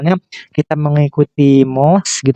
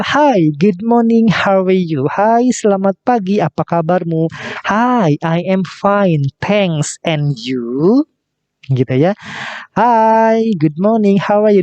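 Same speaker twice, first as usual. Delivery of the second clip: cheerful dialogue reading; 4 semitones higher, slower than usual. Acted. Teacher reads dialogue in cheerful role voice.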